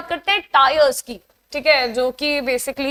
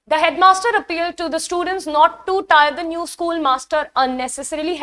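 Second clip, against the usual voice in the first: slow, deliberate test-sentence read; teacher reading an exam question aloud slowly; 2 semitones higher, much slower than usual. Shown as a demonstration. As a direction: read the sentence word by word for the class.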